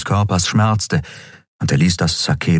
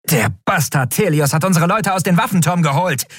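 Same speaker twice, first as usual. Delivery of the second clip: high, bitter accusation; seething anger; 10 semitones higher than usual. Acted. Elin curses Thelios under fire, high and bitter. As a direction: spit out the name with hatred.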